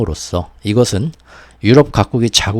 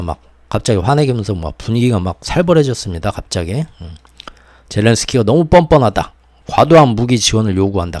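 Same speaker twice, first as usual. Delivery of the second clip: usual speaking voice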